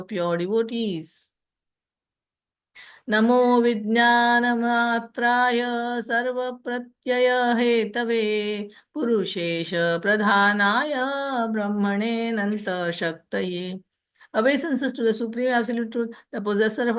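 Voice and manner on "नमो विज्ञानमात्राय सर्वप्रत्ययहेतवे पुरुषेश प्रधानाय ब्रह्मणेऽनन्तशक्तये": measured devotional recitation; Sanskrit verse recitation. Acted. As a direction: recite it like a temple prayer.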